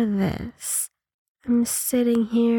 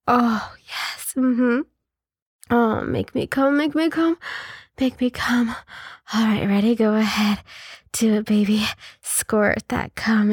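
aroused moaning. Acted. Building to climax moaning.

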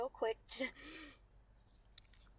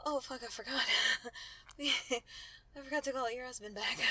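laughing; 2 semitones higher, 6 dB louder than usual. Acted. Sudden remembering mid-act.

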